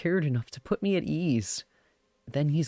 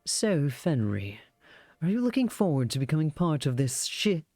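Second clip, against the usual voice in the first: fancy evil man voice. Acted. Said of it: "fancy evil man voice that I usually do".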